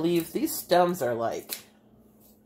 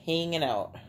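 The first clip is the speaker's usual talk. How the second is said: "Hanging" with a long Bay City A; Bay City accent demo on "Hanging"; 3 dB quieter than usual. Shown as a demonstration. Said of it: "Long A's".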